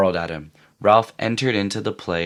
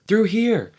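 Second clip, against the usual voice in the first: shouting; 12 semitones higher than usual. A narrator's reading. Jack calling through undergrowth.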